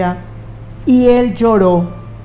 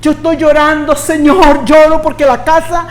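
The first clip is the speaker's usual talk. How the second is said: mock whiny prayer; 3 semitones higher, faster than usual. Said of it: "pero no porque quiere una casa".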